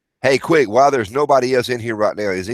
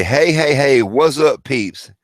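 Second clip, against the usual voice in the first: hey hey hey called out higher and louder; shouted greeting; 5 semitones higher, 4 dB louder, slower than usual. Shown as a demonstration. Host calling out to viewers to test the delay, loud. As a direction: belt the greeting to the chat. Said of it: "I'm gonna say".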